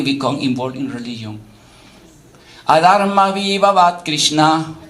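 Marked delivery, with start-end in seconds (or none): 2.7-4.8 measured chanted Sanskrit verse; sloka recitation. Acted. Teacher reciting a Gita verse to the class, intoned. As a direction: intone each line of the verse evenly.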